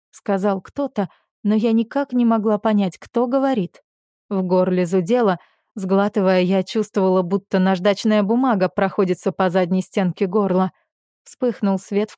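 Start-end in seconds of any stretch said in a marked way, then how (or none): none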